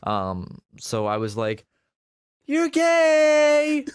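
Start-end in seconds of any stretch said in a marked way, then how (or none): 2.4-3.8 high, drawn-out holler; loud, high sing-out; loud call-out. Retold or imitated. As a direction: holler it teasingly to a roommate in another room.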